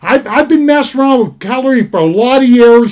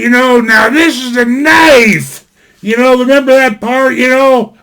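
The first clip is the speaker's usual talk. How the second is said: mock Aussie line, slowed and shouted; Crocodile Dundee impression. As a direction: quote Crocodile Dundee in a put-on Australian accent. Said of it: "I can't do the Aussie brogue, but Paul Hogan".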